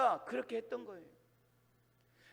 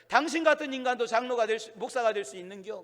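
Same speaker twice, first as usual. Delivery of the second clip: high, louder mock-indignant comeback; mock retort; 3 semitones higher, 5 dB louder than usual. Elder teasing his old friend turned pastor, mock indignation. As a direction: throw the jibe back in mock outrage. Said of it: "똑같이 대받아".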